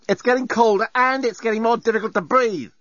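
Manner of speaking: exasperated. Acted. Lucy arguing with robot.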